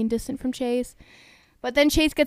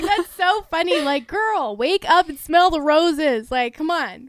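teasing exasperation; 5 semitones higher, 4 dB louder than usual. Retold or imitated. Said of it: "And I'm like".

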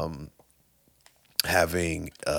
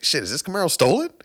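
alarmed; 9 semitones higher, faster than usual. Retold or imitated. Retold panicked thought.

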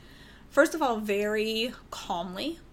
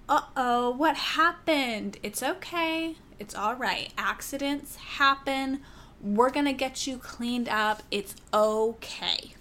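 calm reassurance; 4 semitones higher than usual. Shown as a demonstration. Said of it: "So I handle it very calmly".

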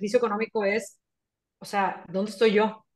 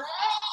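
mock yelling mom; 8 semitones higher than usual. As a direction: play the yelling mom with a quick half-joking squeal. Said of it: "si yo fuera la mamá gritona". (grito de mamá gritona en broma, agudo pero sin volumen)

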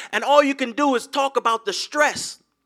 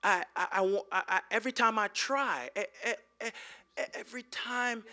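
stammering excuses. Retold or imitated. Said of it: "he said".

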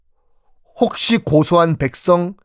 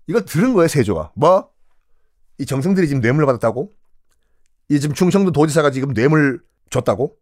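ordinary talk, nothing marked

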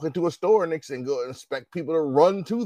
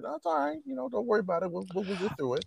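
soft, higher-pitched, soothing reply; acted reassurance; 7 semitones higher, 6 dB quieter, faster than usual. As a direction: reassure them softly in a lifted voice.

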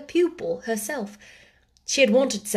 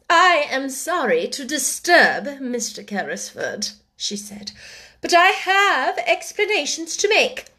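louder, stiffly polite and stern; sternly dignified; 5 semitones higher, 4 dB louder than usual. Acted. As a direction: stay rigidly polite, looking down on them. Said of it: "sternly dignified manner".

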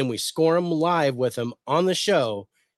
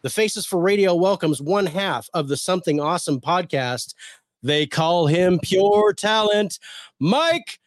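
ring announcer voice; 3 semitones higher than usual. Acted. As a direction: hype the crowd like a ring announcer. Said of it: "get my ring announcer voice on".

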